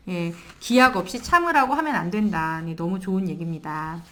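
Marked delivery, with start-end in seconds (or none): none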